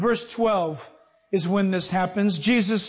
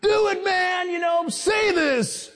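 little angel voice; 10 semitones higher, slower than usual. Retold or imitated. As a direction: squeak like a tiny pushy angel. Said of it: "have a little angel go".

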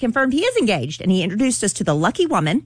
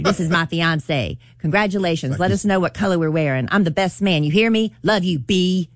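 lightly voiced rapper; rapper impression. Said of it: "that was a good rapper impression".

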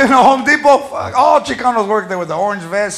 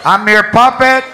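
radio dedication announcer. Retold or imitated. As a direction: croon a dedication like a DJ. Intercom dedication shout-out.

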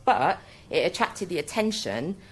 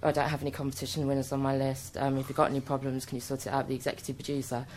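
low, soft brush-off; a hint of a bored researcher brushing them off; flat researcher; 3 semitones lower, 6 dB quieter, faster than usual.

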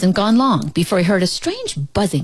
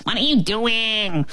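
small bleating voice; 4 semitones higher than usual. Acted. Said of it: "a small voice bleated".

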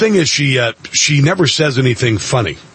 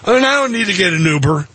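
mock drunk; 4 semitones higher than usual. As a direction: play a tipsy woman swearing she can drive. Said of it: "she was a little slurry".

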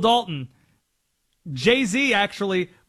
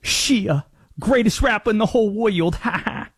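limited rapper impression, lightly voiced; 2 semitones higher than usual. Host shows off a very limited impression, lightly mimicking a rapper. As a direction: do a rough rap-star impression with a little laugh. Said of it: "Very limited rapper. You ready for it?".

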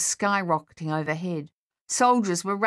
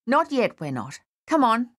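urgent plea, starting high; pleading, pitch jumping up; imploring; 5 semitones higher than usual. A narrator's reading. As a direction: implore a mate to get moving. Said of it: "Dave implored".

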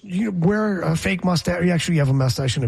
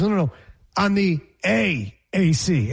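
lightly voiced commissioner. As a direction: drag out the letters a little, apologetic. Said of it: "the commissioner goes".

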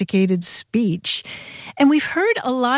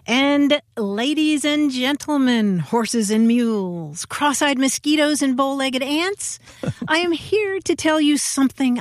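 pompous orator; 5 semitones higher than usual. Pretend. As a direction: declaim like an old-time orator. Mock grand speech opening.

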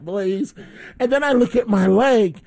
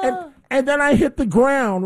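dramatic cry; 6 semitones higher than usual. Retold or imitated. Retelling the fall dramatically.

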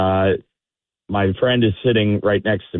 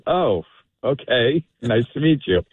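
polite, uninterested reply; 3 semitones higher than usual. Retold or imitated. Sober patron answers a drunk stranger, politely uninterested. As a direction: humour the drunk with no real interest. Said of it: "zero interest in talking".

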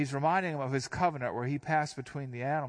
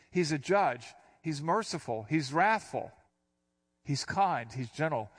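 usual speaking voice

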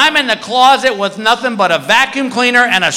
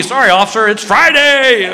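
sheepish excuse; 2 semitones higher than usual. Acted. Man caught at the window excusing himself to police, sheepish. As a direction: offer a lame excuse, stretching the last word.

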